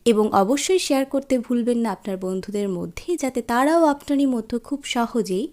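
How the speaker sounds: loud, fast subscribe plea; eager outro pitch. Real, not acted. Host urges viewers to subscribe, loud and fast. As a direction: rush the outro with energy.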